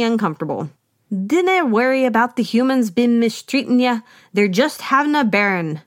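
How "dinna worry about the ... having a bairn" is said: a lightly put-on Scottish brogue, self-consciously bad; quoting Jacques in a weak Scottish accent. Podcaster voicing Jacques to Lady, mild Scottish accent. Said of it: "I'm really bad at my Scottish accent".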